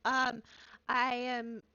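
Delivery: put-on high, small, eager little-girl voice; little shy girl. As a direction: pipe up, tiny and nervous, new to everything. Small shy character meets shopkeeper.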